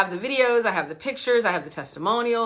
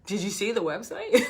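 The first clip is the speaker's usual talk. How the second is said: laughing quote; 2 semitones higher than usual. Retold or imitated. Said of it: "we're like, we're saying".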